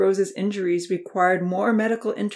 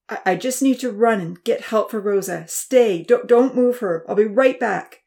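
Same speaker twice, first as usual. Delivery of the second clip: breathless, stammering, louder plea; panting urgency; 3 semitones higher, 6 dB louder than usual. A narrator's reading. Exhausted uncle telling the teens he is going, panting. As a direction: gasp it out as you rise. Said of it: "he panted".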